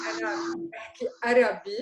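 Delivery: "عربي" with a plain Western A, no Ain; Western accent. Shown as a demonstration. Teacher shows how a Westerner sounds. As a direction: speak Arabic with a Western accent. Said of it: "it sounds Western".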